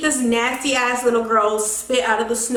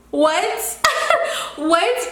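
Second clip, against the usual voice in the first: disbelief; 6 semitones higher than usual. Real, not acted. Shocked at boyfriend's reason.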